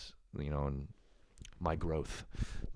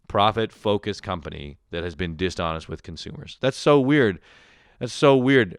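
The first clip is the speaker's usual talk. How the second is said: sarcastic surprise; 3 dB louder than usual. Pretend.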